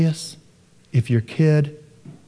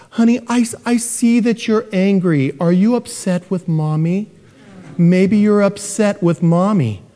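higher, syrupy gentle-mother voice; mock gentle mother; 4 semitones higher than usual. Mother coaxing her angry five-year-old, higher, cooing. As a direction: coo it like a permissive mom. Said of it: "literally, she says".

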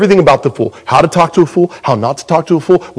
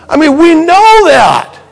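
laughing; 13 semitones higher, 5 dB louder, slower than usual. Real, not acted. Laughing at dog eating vomit.

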